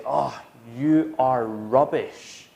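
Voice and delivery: slow teasing jibe at a friend; mock teasing. Mocking a friend who missed an open goal, slow teasing. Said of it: "You would say".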